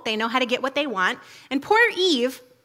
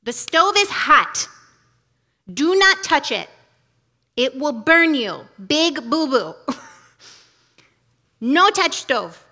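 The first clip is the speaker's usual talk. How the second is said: put-on slow, louder, firm warnings to a little child; parent to toddler; 3 dB louder, slower than usual. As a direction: spell out the danger slowly for a toddler. I tell her.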